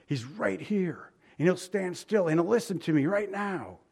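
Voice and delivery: acted insistence, building on each phrase; determined. Blind man sure Jesus will listen, determined. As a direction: press each phrase with resolve. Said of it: "He was determined".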